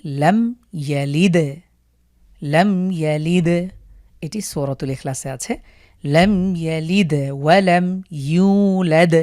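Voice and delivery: slow recitation with the দ of ইয়ালিদ bounced; qalqalah on দ. Shown as a demonstration. Teacher reciting Surat al-Ikhlas slowly, bouncing the দ. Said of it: "দালের উপরে সুকুন থাকার কারণে আমরা এখানে ধাক্কা দিয়ে পড়ব".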